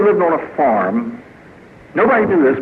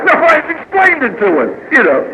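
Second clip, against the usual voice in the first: exasperated aside; 12 semitones higher than usual. Acted. Exasperated punchline after the laugh.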